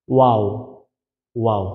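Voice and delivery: ওয়াও said with rounded lips slightly open; pronunciation demo. Shown as a demonstration. Teacher modelling ওয়াও for learners, rounded and falling. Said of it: "গোল করতে হবে".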